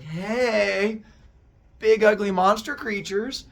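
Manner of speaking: loud, high call down a pit. Acted. Zeus yelling down to the monsters in the pit.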